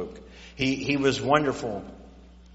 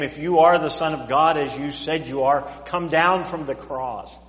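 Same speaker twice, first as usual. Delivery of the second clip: loud, jeering challenge; the crowd at the cross taunting Jesus, loud and jeering; mocking taunt; 3 semitones higher, 7 dB louder than usual. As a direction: throw the taunt up at him.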